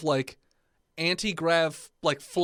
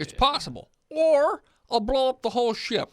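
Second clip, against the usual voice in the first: excited engineer character; 7 semitones higher, 4 dB louder than usual. Acted. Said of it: "he's like".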